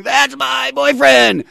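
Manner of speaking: high, loud, slow imitated squeal of "boyfriend"; hammed-up proud teen girlfriend shrieking; mock shriek of a teenage fan; girlfriend's squeal. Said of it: "His girlfriend is going".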